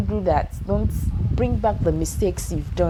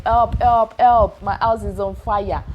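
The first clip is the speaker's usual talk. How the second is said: loud hammed-up call for help, louder; mock cry for help; 3 semitones higher, 4 dB louder, slower than usual. Homeowner shouting to neighbors, hammed-up yell for help. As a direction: yell it out like the house is burning. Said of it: "except when your house is on fire and be like".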